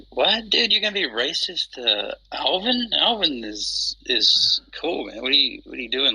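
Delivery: high, indignant disbelief; incredulous outburst. Retold or imitated. Retelling how he called out a racist remark, indignant. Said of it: "And I was like".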